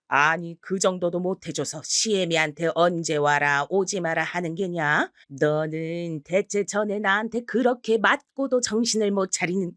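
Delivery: mother-in-law's outburst. Acted. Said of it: "정말 버럭 화를 내시더군요".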